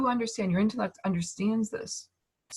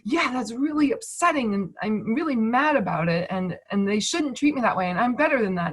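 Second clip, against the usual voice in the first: louder and higher, feeding the grievance; amped-up, self-righteous upset; worked-up indignation; 4 semitones higher, 4 dB louder than usual. Retold or imitated. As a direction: get riled up about how you were treated. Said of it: "you don't make the emotions right".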